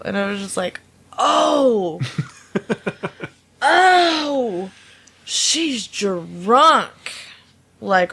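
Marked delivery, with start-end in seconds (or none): 1.2-6.9 startled realisation. Retold or imitated. Retelling catching the drunk customer's smell, laughing surprise.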